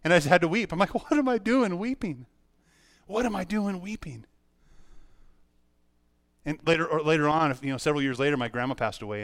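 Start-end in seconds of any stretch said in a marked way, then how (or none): 0.9-2.3 high, drawn-out self-questioning; bewildered. Retold or imitated. Retold bewilderment at his own weeping. 3.1-4.3 softer, still high self-questioning; bewildered, softer. Retold or imitated. Repeats the question to himself, softer.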